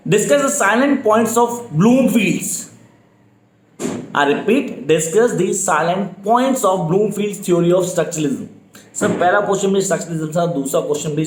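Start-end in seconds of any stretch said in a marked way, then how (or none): 0.1-2.6 very slow, each word spelled out for note-taking; slow dictation. Shown as a demonstration. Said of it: "speed definitely slow है मेरी". 4.9-8.5 very slow, each word spelled out for note-taking; slow dictation. Shown as a demonstration. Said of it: "speed definitely slow है मेरी".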